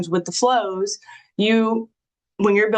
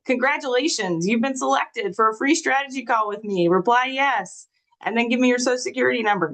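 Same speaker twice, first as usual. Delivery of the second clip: bright, salesy scam pitch, raised pitch; spam message voice; 4 semitones higher than usual. Retold or imitated. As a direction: sell it like a scammer. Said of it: "Or spam alert".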